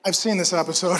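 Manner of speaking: low, soft, amused God; calm God. Retold or imitated. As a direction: answer with unbothered calm. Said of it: "And he's like".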